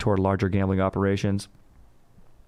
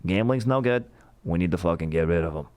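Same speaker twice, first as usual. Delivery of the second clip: Boston Kennedy impression; 3 semitones lower than usual. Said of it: "guy that talks like".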